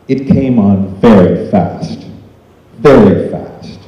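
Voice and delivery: slow, weighty stress on "very fast"; "very fast" said slowly and deliberately; emphatic repetition. Real, not acted. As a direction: draw out "very fast" for dramatic weight. Stressing onset of the drug.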